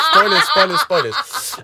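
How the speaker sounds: squealing spoilers; high-pitched playful yelp; excited high shout. Real, not acted. Warning about film spoilers.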